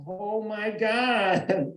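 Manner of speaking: a very slow, drawn-out, awed "Oh my God"; stunned realization. Retold or imitated. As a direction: let it sink in slowly, dumbstruck. Realizes his wife's feelings.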